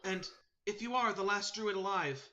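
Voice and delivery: high, earnest bird voice; solemn sparrow messenger. Acted. Sparrow urging the last druid to take heart, solemn. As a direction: pass on a grave charge in a high voice.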